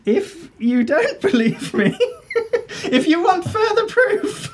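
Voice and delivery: put-on high, conspiratorial old lady voice; a prim busybody spreading dark rumours; gossiping old lady. Same old lady voice, laughing.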